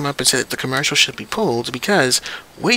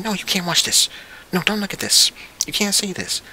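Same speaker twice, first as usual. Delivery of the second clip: strict parent; 4 semitones higher than usual. Retold or imitated. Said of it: "parents go in a full total apeshit mode".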